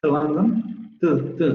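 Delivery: to London with schwa in to; to débil. Shown as a demonstration. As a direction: say to as a weak "tuh". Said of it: "la vocal central". (to con vocal central reducida)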